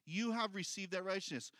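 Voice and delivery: a firm, emphatic have; stress on have. Shown as a demonstration. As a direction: have pressed firmly. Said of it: "repeats with stress".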